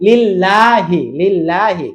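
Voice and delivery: লিল্লাহি with a light, thin L; light recited লিল্লাহি; thin L in Lillahi. Shown as a demonstration. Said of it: "লা হবে normal".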